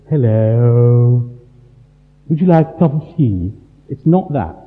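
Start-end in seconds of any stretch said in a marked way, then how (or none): 0.1-3.5 twee Christian. Retold or imitated. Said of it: "that Christian thing of".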